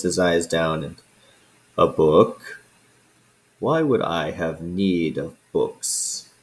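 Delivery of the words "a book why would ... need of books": a hint of an old dragon sneering, slow at the end; lightly voiced scornful dragon. Dragon scoffs at the adventurers' request for a book, lightly voiced disdain. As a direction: let the dragon scoff at the idea of books.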